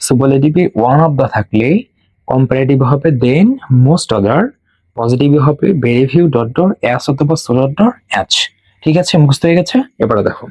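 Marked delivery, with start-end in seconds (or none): 0.1-8.3 slow, measured recitation for memorizing; read-along drill. Shown as a demonstration. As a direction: recite slowly so students can repeat along. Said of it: "আমার সাথে পড়ো, পড়ো".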